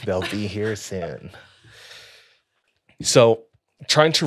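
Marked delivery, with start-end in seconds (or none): 0.1-1.3 creepy slow whisper. Retold or imitated. Teller repeats creepy line slowly.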